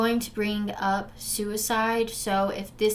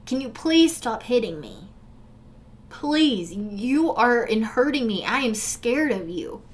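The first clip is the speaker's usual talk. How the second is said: pleading question; 2 semitones higher than usual. Retold or imitated. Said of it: "Like it's a question".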